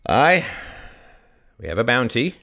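lightly voiced old villager. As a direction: speak plainly like a creaky old farmer. Old Bob speaks at podium.

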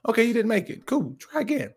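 high, easy reassurance; breezy encouragement. Retold or imitated. Dad to son who missed, breezy and encouraging. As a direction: shrug off the miss, lightly and high.

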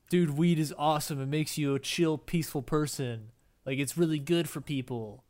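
lightly voiced stoner dude; a hint of laid-back weed enthusiast; weed smoker voice. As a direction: put on a slight pothead voice, selling the stuff. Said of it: "weed smoker voice".

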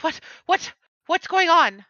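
groggy just-woken voice rising up; Xanrith's voice. Acted. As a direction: act roused from sleep, rising confusion. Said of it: "I can perfectly take his voice".

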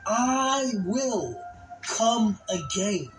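measured preacher's reading, rising in force; scripture recitation. Acted. Preacher quoting Jesus to the congregation, solemn scripture recitation. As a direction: recite it with weight, drawing out the key words.

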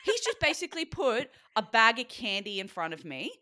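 high, loud mock outrage, stretched out on the repeated question; outraged. Bodybuilder reliving partner bringing forbidden food, outraged. Retelling outrage over bag of candy.

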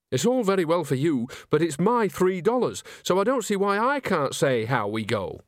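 a hint of a quarrelsome old witch; lightly voiced Granny.

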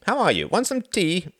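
high-pitched hearty greeting; breezy host offering hospitality. A narrator's reading. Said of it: "Reginald grinned breezily".

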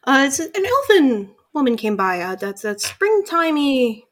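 lightly voiced owl woman recalling; owl innkeeper. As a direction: innkeeper thinking aloud about guests. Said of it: "She's like".

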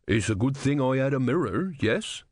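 hopeful captain, lightly voiced; a touch of hope, slightly lifted. A narrator's reading.

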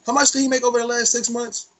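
mock fed voice. Friends joking about the feds, imitating an investigator sneeringly. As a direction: play the nosy investigator counting his cash.

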